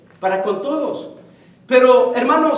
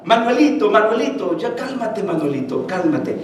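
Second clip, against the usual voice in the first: lower, softening self-soothing murmur; patient, hushed reassurance, as if to a child; affectionate calming; 3 semitones lower, 4 dB quieter than usual. Retold or imitated. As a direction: gently talk yourself down, voice sinking. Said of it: "Cómo con cariño le viene diciendo".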